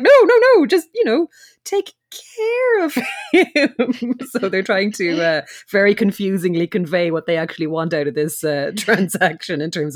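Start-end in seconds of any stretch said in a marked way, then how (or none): 0.0-4.1 urgently hint at the hit; hammed-up insistent mob hint. Characters insist, high loud.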